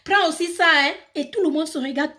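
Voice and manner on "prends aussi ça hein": put-on African accent. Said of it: "tu as l'accent africain".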